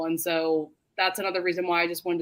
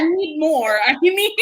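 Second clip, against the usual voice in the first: mock demand; 7 semitones higher, 6 dB louder than usual. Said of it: "she's like".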